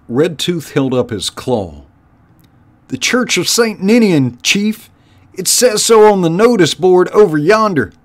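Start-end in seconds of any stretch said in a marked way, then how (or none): 2.9-7.9 high, loud underling voice; squeaky, high-pitched rat lackey; henchrat minion. Acted. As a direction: pipe up with a report to the boss. Red Tooth answers the chief.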